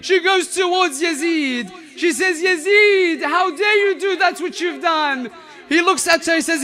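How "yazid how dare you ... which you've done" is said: defiant rebuke. Acted. Zainab confronts Yazid in court.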